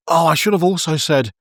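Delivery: mock eager afterthought, pitch jumping up; acted sudden afterthought. Acts out Uriel having an afterthought.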